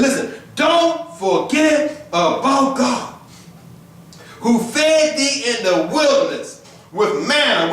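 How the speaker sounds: slow, drawn-out preaching of scripture; scripture reading. Acted. Preacher reading the verse to the congregation, slow and solemn. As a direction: lean into each word of the verse.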